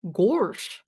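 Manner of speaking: lightly voiced Goofy catchphrase; a hint of a cartoon character's exclamation; Goofy impression. Streamer tries out the cartoon character's voice, light impression. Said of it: "with the character Goofy".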